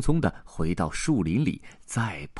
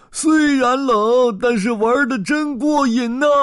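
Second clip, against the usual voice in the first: high, delighted shout; playful elephant shouting with joy in the snow; gleeful shout; 6 dB louder than usual. Acted. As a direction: yell it out having the time of your life. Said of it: "另一头大象笑着说".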